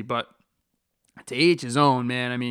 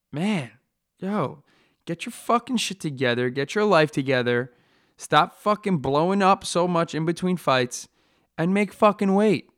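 louder, higher, fed-up scolding; angry rant; 4 semitones higher, 3 dB louder than usual. Real, not acted. Fighter ranting at guys who miss weight, loud and angry. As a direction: chew them out like a fed-up coach. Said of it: "Sorry about that rant".

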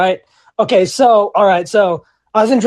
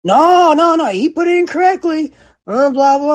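imitating manager; 8 semitones higher than usual. Manager defends him.

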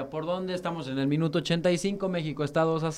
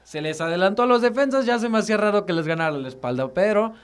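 agitated commentary; 5 semitones higher, 5 dB louder than usual. Real, not acted. Explaining offside, agitated.

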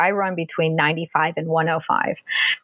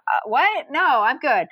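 startled protest; 7 semitones higher, slower than usual. Retold or imitated. Retold alarm at hospital.

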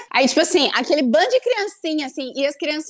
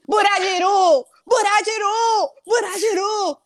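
put-on Buradiru drawn out slowly, pitched up, in a Japanese accent; mock Japanese-accented shout; 7 semitones higher, slower than usual. A friend retells a guy chanting Buradiru in a Japanese accent. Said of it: "começou a gritar assim".

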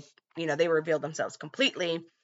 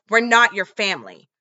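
defiant retort; 3 semitones higher, 8 dB louder than usual. Retold or imitated. Jess defying John.

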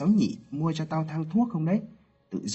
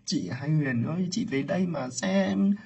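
high, loud grieving cry to the dead; wailing lament; 10 semitones higher, 3 dB louder than usual. Acted. Aunt crying out to her dead sister, wailing lament. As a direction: call out in despair to the lost sister.

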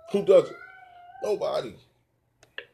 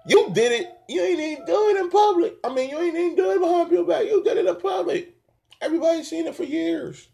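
very high-pitched, incredulous rebuke; exasperated scolding; 9 semitones higher than usual. Real, not acted. Podcaster calling out a public wrongdoer, exasperated scolding. Berating someone absent over public misdeeds.

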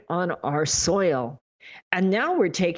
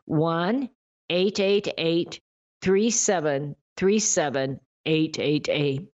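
slow, evenly spaced digits for note-taking; slow dictation; slower than usual. Shown as a demonstration. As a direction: repeat the number slowly, pausing between groups. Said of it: "I'll say it slow".

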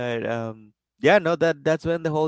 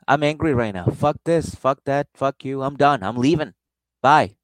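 louder, huffy storming-off rant; mock angry drunk; 5 dB louder than usual. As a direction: stomp off like a drunk who's had enough. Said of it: "and she's like".

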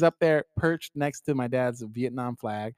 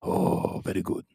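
mock Asian accent; slower than usual. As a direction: play Emperor Chang with a light mock Asian accent. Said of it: "the Harambe sounds kinda Asian".

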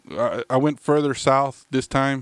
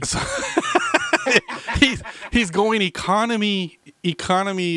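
laughing; 7 semitones higher than usual. Real, not acted. Laughing at cheap beer.

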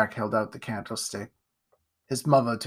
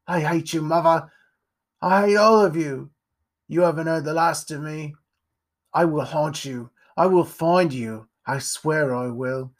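louder, bitter vow of revenge; vengeful boy; 3 semitones higher, 4 dB louder than usual. Acted. Jack vowing to haunt his mother, bitter. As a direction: spit out a vengeful oath.

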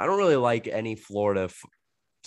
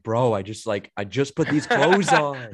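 mock-exasperated complaint, rising louder; 4 semitones higher, 4 dB louder, slower than usual. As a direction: act out dismay at freshly soiled clothes. Acting out dismay at soiled clothes.

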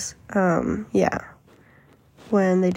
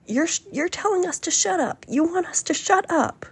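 high, indignant mock protest; high-pitched affronted imitation; raising her voice; 9 semitones higher than usual. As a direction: imitate an outraged senator, pitch way up. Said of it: "raising her voice".

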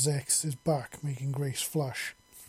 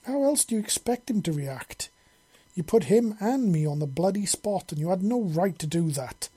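higher, louder, indignant rebuke; angry snarl; 5 semitones higher, 4 dB louder than usual. A narrator's reading. Mortified mother scolding her daughter, angry snarl. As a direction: tear into her for overstepping. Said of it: "Grace snarled angrily".

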